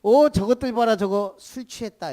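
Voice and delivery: lightly voiced sneer at the drunk-looking crowd; mocking bystanders. Bystanders mock the Spirit-filled believers, lightly scoffing. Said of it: "그걸 본 사람들이 뭐라 그랬어요?".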